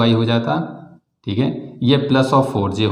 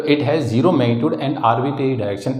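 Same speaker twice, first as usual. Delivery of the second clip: slow dictation for students writing notes; much slower than usual. Real, not acted. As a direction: spell it out at a measured, slow pace. Teacher dictating definition, then spelling. (धीरे-धीरे बोलकर लिखवाते हुए)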